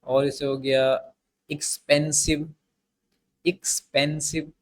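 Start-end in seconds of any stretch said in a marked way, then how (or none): 1.5-2.5 एक्सपेंसिव said as एक्स, then पेंसिव; एक्सपेंसिव, carefully divided after एक्स; split in two parts. Shown as a demonstration. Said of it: "एक्स उसके बाद पेन से". 3.5-4.5 एक्सपेंसिव said as एक्स, then पेंसिव; एक्सपेंसिव, carefully divided after एक्स; split in two parts. Shown as a demonstration. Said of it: "एक्स उसके बाद पेन से".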